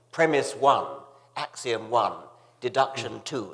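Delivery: mock-pedantic recital, each item set apart; pompous, pedantic. Mocking an opponent's debating style, pompous and pedantic. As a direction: lightly imitate a pompous logician listing steps. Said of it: "pompous and pedantic style".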